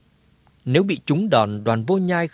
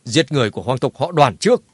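through clenched teeth; 4 dB louder than usual. Acted. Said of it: "cắn răng nói".

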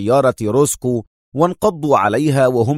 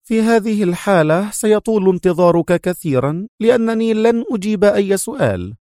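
much higher, firm refusal; defiant woman; 8 semitones higher than usual. Acted. The major refusing to answer the inspector, high and defiant. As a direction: dig in and refuse. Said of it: "وهي تقول".

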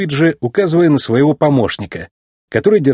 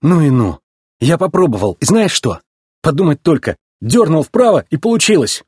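raised pitch, lightly marvelling; mild amazement; 5 semitones higher than usual. Acted. Race car talking to himself about the turn, amazed. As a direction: talk yourself through a small discovery, higher. McQueen marvels at his success.

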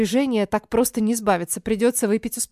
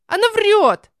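put-on much higher, louder childish accusation; accusing shout; 11 semitones higher, 7 dB louder, slower than usual. Sofia accuses her sister to mom, high loud shout. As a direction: point the finger and yell.

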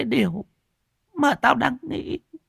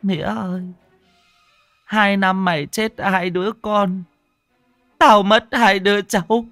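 high wailing mother-in-law, growing louder; tearful, snivelling; 11 semitones higher, 5 dB louder than usual. A narrator's reading. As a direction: start in a high whimper and swell into loud, anguished reproach. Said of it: "bấy giờ mới sụt sịt mếu máo". (mếu máo sụt sịt, giọng cao dần to lên)

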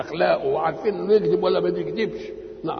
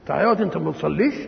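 quick, accusing rebuke; scolding reproach; faster than usual. Shown as a demonstration. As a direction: snap it fast, disapproving. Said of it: "تنكر عليه". (توبيخ سريع مستنكر)

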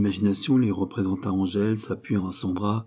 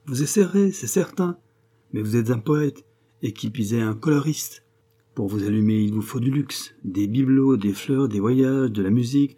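lightly mocking, animated friend; a touch of worldly scorn; sarcastic friend, dismissive. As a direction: pile up the objections, teasingly.

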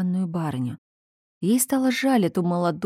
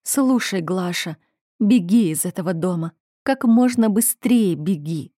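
usual speaking voice

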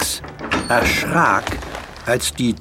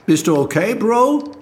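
concerned sister; 11 semitones higher than usual. A narrator's reading. Alex asks brother.

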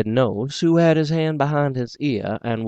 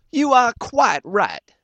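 higher, slow, condescending; slow insult; 12 semitones higher, slower than usual. Acted. The doctor insulting Will, slow and condescending. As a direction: look him up and down with the words. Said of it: "very slow and insulting".

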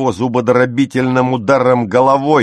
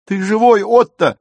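much higher, louder shriek; frightened girl crying out; girl's scream; 12 semitones higher, 6 dB louder than usual. A narrator's reading. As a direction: scream out in alarm. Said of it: "завопила Зильке".

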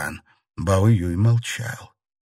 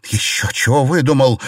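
higher, louder indignant shout; 6 semitones higher, 5 dB louder than usual. A narrator's reading. Xiren shouting at Bao Yu not to give the jade away. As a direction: cry out in disbelief. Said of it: "закричала Сижень".

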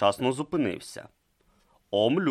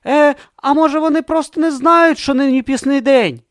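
hesitant suggestion; 12 dB louder than usual. Acted. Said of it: "ризикнув припустити Брутто".

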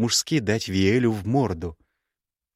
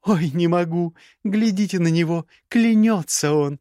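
loud high mocking laugh-talk, slowing at the end; higher, louder mockery; 9 semitones higher, 4 dB louder than usual. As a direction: ridicule his oath. Gerda mocks his oath.

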